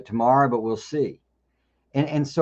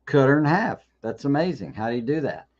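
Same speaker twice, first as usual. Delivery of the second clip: mildly amazed, higher at the start; amazed audience member; 3 semitones higher than usual. Acted. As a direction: react like a wowed magic-show spectator. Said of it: "you go".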